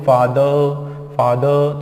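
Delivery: फादर as slow "faa-duh"; silent R. Shown as a demonstration. Teacher has learners repeat it, silent R. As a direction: stretch फादर, open ending with no र. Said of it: "यहाँ पे र नहीं पढ़ना है".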